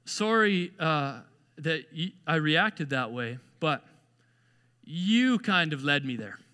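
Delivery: slow, low, halting apology; reluctant apology. Acted. Apologizing while blaming the other person, reluctant. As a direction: drag it out with heavy pauses. Acting out a blame-shifting apology.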